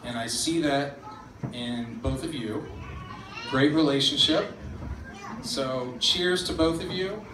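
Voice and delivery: sincere, gentle wedding toast; heartfelt words to the couple. Real, not acted. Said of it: "in all honesty".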